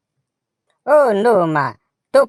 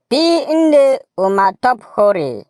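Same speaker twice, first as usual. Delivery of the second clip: loud leader call; 5 semitones higher, 4 dB louder than usual. Shown as a demonstration. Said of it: "everybody say".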